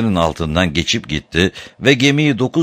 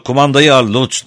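louder, high-pitched call; shouted order; 7 semitones higher, 5 dB louder than usual. A narrator's reading. Graf Otto orders Lutz to take the controls, shouting. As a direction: raise voice and pitch for a command. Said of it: "diye bağırdı".

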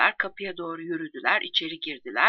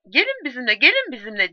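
louder, raised call to come along; shouting; 6 semitones higher, 7 dB louder than usual. A narrator's reading. The others call their comrades to come along, shouting. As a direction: call it out loudly, urging others on. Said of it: "diye bir ağızdan bağırdılar".

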